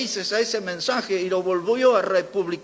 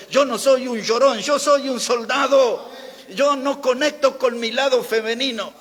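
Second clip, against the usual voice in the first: raised, forceful preacher's declaration; emphatic; 5 semitones higher than usual. Retold or imitated. Preacher quoting a pastor's defiant sermon, emphatic. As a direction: drive each statement home with higher pitch. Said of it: "Y enfatizaba en eso".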